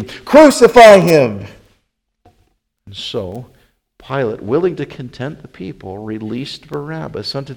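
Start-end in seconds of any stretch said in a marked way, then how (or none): 0.0-1.5 louder, drawn-out mob shout; crying out exceedingly. A narrator's reading. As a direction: stretch the yell out at full force. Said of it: "they cried out the more exceedingly".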